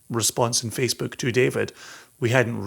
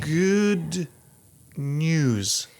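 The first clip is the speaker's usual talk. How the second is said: put-on drawn-out old Hollywood "Good news"; "Good" lifted, "news" falling, film-star style; transatlantic accent; 2 semitones higher, 3 dB quieter than usual. Shown as a demonstration. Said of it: "Am I saying that correctly?".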